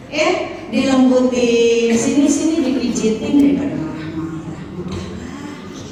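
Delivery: sing-song coaxing. Acted.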